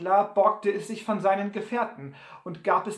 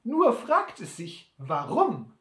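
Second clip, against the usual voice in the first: Sam listig; 4 semitones higher, 4 dB louder, slower than usual. Acted. Sam Hawkins' Stimme.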